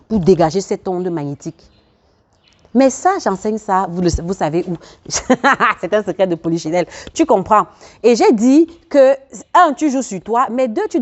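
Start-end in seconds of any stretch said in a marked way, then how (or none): 5.1-5.7 brief amused laugh; short chuckle. Real, not acted. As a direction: let out a quick little chuckle. Amused aside about open secret. (petit rire amusé)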